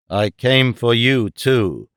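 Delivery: lightly voiced solemn ape-man; grave Tarzan. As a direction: weigh each word. Tarzan speaks to the girl.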